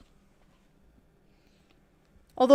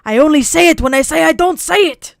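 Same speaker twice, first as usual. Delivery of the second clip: put-on Dracula accent; 6 semitones higher, 9 dB louder than usual. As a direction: boom it out like Count Dracula in a thick Transylvanian accent. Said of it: "sounds like I'm fucking Dracula from Transylvania".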